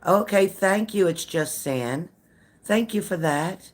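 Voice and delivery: slow, drawn-out fake gratitude with a high start; overly sweet thank-you that means the opposite; sarcastic thanks. Real, not acted. To a rude commenter, slow sarcastic thanks.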